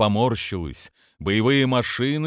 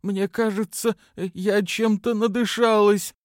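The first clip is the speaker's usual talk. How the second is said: high, slow, strained croak faking illness; a daughter faking a choking fit on the phone, much higher and slow; faked choking; 12 semitones higher than usual. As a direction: put on a sick wheeze, dragged out. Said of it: "имитируя приступ удушья".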